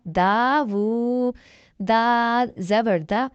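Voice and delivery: slow, deliberate letter-by-letter recitation, each syllable set apart; slow tajweed spelling drill. Shown as a demonstration. Teacher drilling students in Quran reading, slow syllable recitation. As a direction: spell each letter and vowel slowly for beginners.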